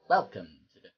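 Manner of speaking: hammy fast Shatner-style read; a touch of William Shatner; overacted Shatner. Shown as a demonstration. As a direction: overplay the welcome like a ham. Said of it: "stop acting like William Shatner".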